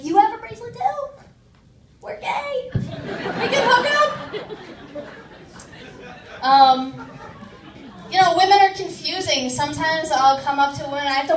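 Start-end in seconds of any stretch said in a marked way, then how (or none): 0.0-5.0 much higher, bubbly excited squeal; excited girly voice. Retold or imitated. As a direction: squeal it like meeting a kindred spirit. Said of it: "it'd be like".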